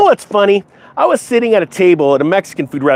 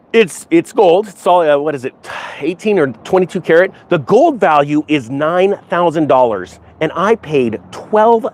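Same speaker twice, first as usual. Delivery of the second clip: imitating friend's delivery. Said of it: "That's exactly how he said it".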